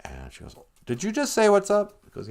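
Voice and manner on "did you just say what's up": high-pitched mock disbelief; surprised Dorothy. Dorothy hearing a scarecrow talk, surprised high voice. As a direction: pitch it way up, taken aback.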